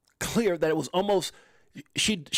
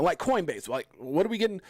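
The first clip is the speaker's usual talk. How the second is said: ordinary talk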